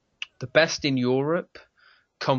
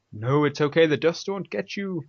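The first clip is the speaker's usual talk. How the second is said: higher-pitched cooing reassurance in jest; mock soothing; 5 semitones higher than usual. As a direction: coo as if comforting something precious. Coddling a treasured console in jest.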